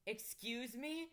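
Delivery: slow, puzzled question; can't believe what she heard; baffled. Acted. Girl asks the vampire to repeat, slow and puzzled.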